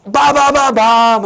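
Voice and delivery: high, rapid-syllable burst of noise; emotional outburst. Shown as a demonstration. Teacher mimics someone speaking emphatically, emotional outburst. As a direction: blurt it like feelings exploding, last syllable stretched. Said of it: "뭔가 감정적으로 막".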